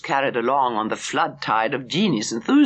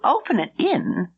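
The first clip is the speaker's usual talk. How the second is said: higher, rising in disbelief; surprised question; 9 semitones higher than usual. A narrator's reading. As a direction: echo it back, astonished. Gladys surprised at the idea.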